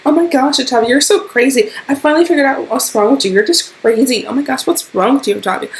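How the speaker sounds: high, loud condescending whine; high mock-exasperated roommate. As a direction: imitate her calling you crazy. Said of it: "she's just like".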